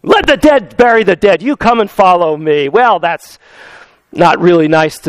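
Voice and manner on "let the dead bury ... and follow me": blunt. Retold or imitated. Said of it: "rather bluntly says".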